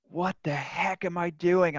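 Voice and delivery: dawning panic at his own life; panicked inner voice. Retold or imitated. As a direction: hear yourself waking up to the mess, alarmed. Panicked inner thought at rock bottom.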